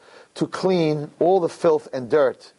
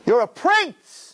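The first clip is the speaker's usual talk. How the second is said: grand reveal; 4 dB louder, much slower than usual. Acted. Old man reveals identity.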